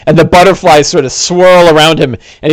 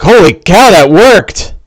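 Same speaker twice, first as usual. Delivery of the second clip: higher, louder amazed exclaim; surprised NPC; 4 semitones higher, 4 dB louder, slower than usual. Acted. Goblin stunned the healing potion worked, amazed cry. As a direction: gasp it out like the potion shocked him. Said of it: "he looks surprised".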